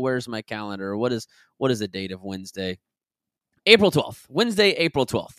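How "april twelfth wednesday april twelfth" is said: sudden loud, high-pitched burst; really loud. Real, not acted. Host finally finds the date on the calendar, blurting it loudly. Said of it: "Sorry, that got really loud".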